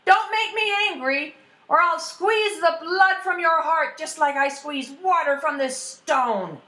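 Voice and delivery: high-pitched, blustering threat; yelling back. Acted. Ash lad bluffs the troll with cheese, high threatening yell. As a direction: yell a bold bluff, slowing at the end. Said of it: "and yelled back".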